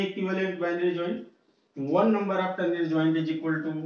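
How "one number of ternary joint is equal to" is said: slow dictation. Shown as a demonstration. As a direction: dictate the rule word by word for notes. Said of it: "repeats the rule slowly".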